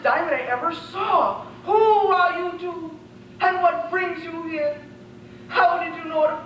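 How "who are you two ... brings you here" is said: slow, higher regal question; a princess addressing visitors; a hint of a sad princess; lightly voiced princess. Princess greets the strangers.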